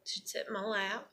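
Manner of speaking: breathy whisper of a fond memory. Real, not acted. Remembering her daughter sitting on her lap, whispered. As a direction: barely voice it, holding back tears.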